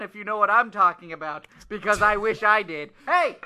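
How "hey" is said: sudden high call of hey. Acted. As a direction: shout hey across the room. Calling out.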